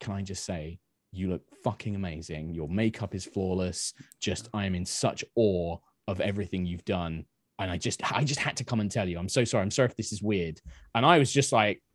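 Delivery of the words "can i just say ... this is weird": hushed, really soft, gentle, soft-spoken delivery. Retelling what a man said when he came over, speaking really softly. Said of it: "really softly".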